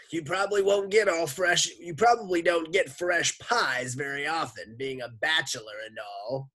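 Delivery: high, loud cartoon lady voice; sloshy lunch lady. A narrator's reading. Lunch lady calls through the door, high sloshy holler. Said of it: "like two boots sloshing through the mud".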